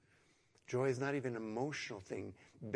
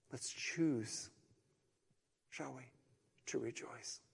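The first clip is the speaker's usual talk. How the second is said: hushed, breathy invitation; soft whisper; 2 semitones lower, 7 dB quieter than usual. Real, not acted. Pastor gently inviting the congregation to rejoice, whispered. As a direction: draw them close and whisper it. Intimate appeal after suffering talk.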